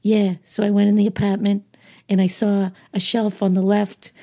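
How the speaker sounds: imitating a Boston accent, quick. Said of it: "he literally talks like this, but he's got a Boston accent".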